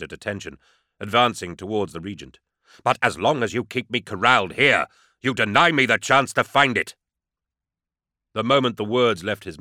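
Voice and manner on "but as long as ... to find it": rising, pressing protest, a little louder; annoyed. Acted. Legionary protesting to the Regent, pressing and annoyed. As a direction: push back hard against being held. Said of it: "Garro felt his annoyance returning".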